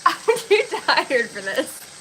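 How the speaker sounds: laughing tiredly. Real, not acted. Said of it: "I just start laughing at everything".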